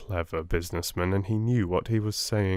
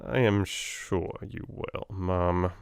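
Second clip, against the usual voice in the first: sinister smile; slower than usual. Acted. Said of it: "with a little sinister smile".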